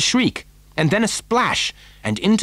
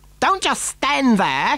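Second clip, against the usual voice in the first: piercing, shrill, very high-pitched shrieking scream; 9 semitones higher than usual. As Augustus yells for help, Mrs. Gloop screams at Mr. Gloop: screaming. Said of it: "Gloop screamed at Mr".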